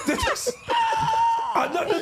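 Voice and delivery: high, slow, squealing laughter through the words; real laughter breaking the sentence; can't finish for laughing; laughing helplessly. Real, not acted. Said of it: "Are we supposed to be laughing?".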